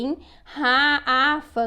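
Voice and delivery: "ra-, afa" split apart to show how garrafa ends; teacher isolating the rhyme sound "afa" for a child; word ending sounded out. Shown as a demonstration. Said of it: "A palavra garrafa termina em quê?".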